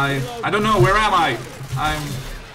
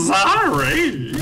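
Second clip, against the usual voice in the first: sarcastic sorry, pitched up; 9 semitones higher than usual. Shown as a demonstration. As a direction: say it like you don't mean it. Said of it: "you need to say sorry sarcastically".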